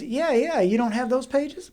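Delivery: high-pitched imitation, lightly incredulous; put-on high voice; bad Lee impression. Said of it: "I'm gonna do a bad Lee impression".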